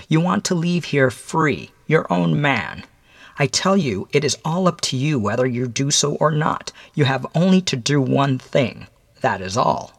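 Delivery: measured visitor addressing a condemned man; stern mysterious visitor. Acted.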